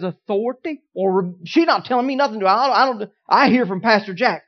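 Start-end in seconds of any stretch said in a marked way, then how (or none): 1.4-4.4 rebellious mimic. Mocking a rebellious churchgoer.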